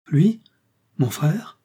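cri aigu et fort, interrogatif; s'écrier d'effroi en voyant entrer son agresseur; cri épouvanté. A narrator's reading. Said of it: "cria l'infirme épouvantée". (cri d'épouvante)

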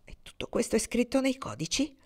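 breathless, whispered astonishment; barely believing, hushed; amazed whisper. Acted. Ortensia asks Norman in wonder, hushed.

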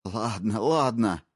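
quick panicked blurt, rising. Acted. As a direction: spit it out before the knife moves. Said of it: "выпалил тот".

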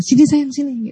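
put-on soft, coaxing call to a child; gentle calling. Shown as a demonstration. Mother softly calling her child over to chat, gentle. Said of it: "ajak anak ngobrol sebentar aja".

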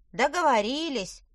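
high little elf voice; squeaky elf agreeing. Acted.

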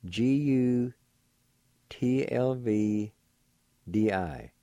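slow, letter by letter; spelling out letters. Shown as a demonstration. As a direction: spell it out slowly. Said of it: "It's spelled like this".

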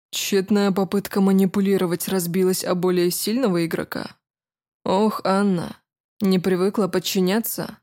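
calm, commanding, a hint of mockery; lightly voiced cool nobleman; smug prince. Prince's voice in the story.

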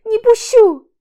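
очень громкий высокий визгливый крик; сорваться на визг; пронзительный крик. A narrator's reading. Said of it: "Снова кричит она". (Аля снова кричит, не пуская его)

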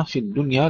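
الدنيا wrongly said with a light, single د. Shown as a demonstration. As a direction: show the error: skip the doubled د in الدنيا. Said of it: "لا نقول".

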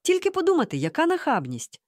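scandalised, falling from high pitch; indignant hiss. A narrator's reading. Mom appalled at the old man's cheek, hissing indignantly. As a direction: start high in outrage, then drop. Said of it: "прошипіла мама".

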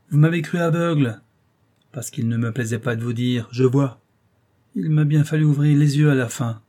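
accusation plus forte, indignée; écrase le fils sous le reproche; père qui accuse. Acted. (père indigné, plus fort)

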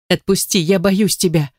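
mild, understated scared pleading; breaking frightened plea. Acted. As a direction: plead with a faint crack of fear. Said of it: "ломающимся голосом прошептала ему".

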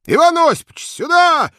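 a guest hollering for a friend, loud bellow; bellowed call. Acted. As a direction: yell it high and loud across the hotel. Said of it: "гаркнули где-то".

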